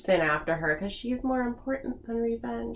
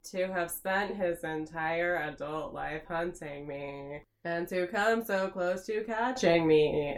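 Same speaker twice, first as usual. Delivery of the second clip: megalomaniac rant. Retold or imitated. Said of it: "when you read these villain monologues".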